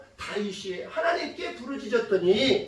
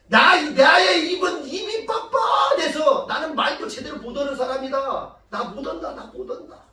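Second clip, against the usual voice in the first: higher-pitched, slightly hammed-up protest; reluctant protest; 3 semitones higher than usual. Moses tells God he cannot speak well, reluctant protest. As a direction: plead your way out, starting big and trailing away. Acting Moses refusing God's task.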